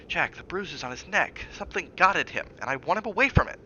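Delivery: she is nearly shouting at him out of fear. Acted. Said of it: "Don't shout".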